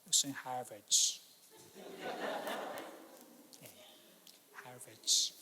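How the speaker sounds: low, slow and smug, dropping the name like a trophy; smug Harvard graduate. Acted. Harvard graduate boasting to a Uniub graduate, low and smug. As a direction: play the snob who looks down on the other. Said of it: "O cara de Harvard olha pro de Uniub e fala".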